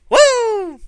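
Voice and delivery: high, loud repeated Flair woos; Ric Flair woo. Retold or imitated. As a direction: howl it like Ric Flair in the ring. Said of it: "he's like".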